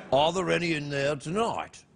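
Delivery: ordinary talk, nothing marked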